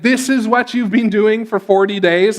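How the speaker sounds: mildly exasperated disbelief; frustrated, with a slight lift in the voice. Retold or imitated. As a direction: lightly act out a frustrated question. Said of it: "really frustrated here".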